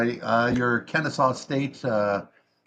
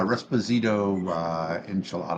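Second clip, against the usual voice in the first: fake Italian; 2 semitones lower, 5 dB quieter, slower than usual. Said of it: "the fake Italian".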